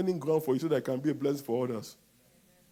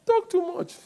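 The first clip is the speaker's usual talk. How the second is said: slow, loud, punched; loud scolding; 10 dB louder, slower than usual. Shown as a demonstration. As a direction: scold your neighbor. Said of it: "Tell your neighbor".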